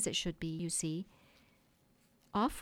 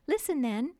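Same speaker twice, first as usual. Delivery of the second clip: higher, louder call to attention; Wendy the storyteller, eager; 7 semitones higher, 6 dB louder than usual. Acted. Wendy starting her bedtime story for the boys, eager. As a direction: gather the listeners with a raised voice.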